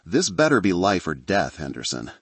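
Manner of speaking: sleepy, just woken voice; groggy. Acted. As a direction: answer half asleep, groggy. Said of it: "a groggy voice answered".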